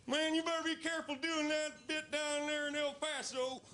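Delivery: very high, thin imitation of the El Paso friend; friend's voice. Warning the comic about the El Paso bit, high squeaky voice. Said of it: "That's how he talks".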